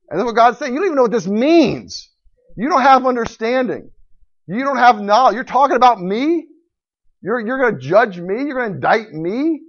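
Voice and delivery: loud, high, rebuking divine questions; God's indignant voice. Acted. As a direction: cut the proud man down. Preacher voices God rebuking Job.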